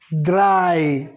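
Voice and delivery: Drei with EI said as "ai"; German pronunciation. Shown as a demonstration. Teacher sounding out German three, German pronunciation. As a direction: say Drei to rhyme with "dry", falling. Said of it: "O E I vai ter som de I".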